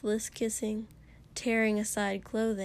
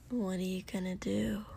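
whispering; 6 dB quieter than usual. Acted. Denki challenges softly.

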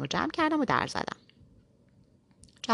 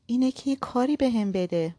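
higher, firmer serious voice; 5 semitones higher, 3 dB louder than usual. Acted. Girl insisting seriously to the man, firm. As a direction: put on a stern, businesslike tone. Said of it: "لحن جدی به خودم گرفتم".

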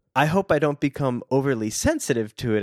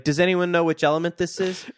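teacher voice; 6 semitones higher, faster than usual. Pretend. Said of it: "what are they like in science class".

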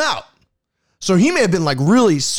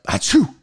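quick mock sneeze; a plain, short fake sneeze; imitated sneeze. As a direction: act out a simple achoo. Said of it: "I just hear him sneeze".

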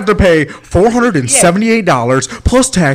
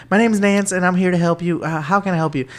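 country lady; 5 dB quieter than usual. Retold or imitated. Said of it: "I get this very country lady".

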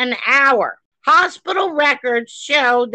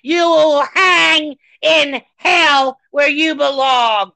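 slow furious curse; slower than usual. Real, not acted. Host cursing the governor, slow angry shout. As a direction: spit each word at him.

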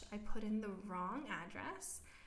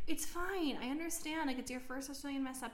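higher, soothing retold voice, easing down; nice lady reassuring; 4 semitones higher than usual. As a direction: reassure kindly, starting high and settling. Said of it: "the lady was so nice about it".

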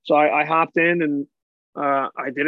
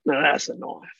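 put-on lightly done Australian accent; a hint of Dundee, on a pickaxe; mock Aussie accent; 3 semitones lower than usual. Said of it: "Crocodile Dundee".

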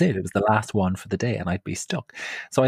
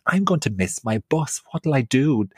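worried plea; 5 semitones higher than usual. Retold or imitated. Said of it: "and I said".

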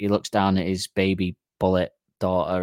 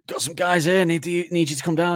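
lightly voiced gangster; 7 semitones higher than usual. Gangster calling the Uzi.

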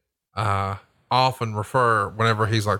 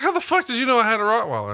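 high, fast, a bit louder disbelieving blurt; incredulous friend; 12 semitones higher, 3 dB louder, faster than usual. Retold or imitated. Friend demanding how host knew about his dog, high fast blurt. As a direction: rattle it off like he can't believe it. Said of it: "He's like".

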